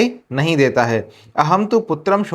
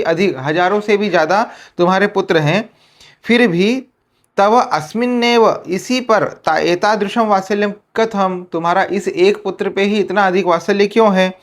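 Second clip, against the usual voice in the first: much higher, amazed question; Indra wondering; 4 semitones higher than usual. Retold or imitated. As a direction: ask in wonder why one son is loved most. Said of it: "अब इंद्र बोल रहे". (बहुत ऊँचे स्वर में आश्चर्य से पूछना)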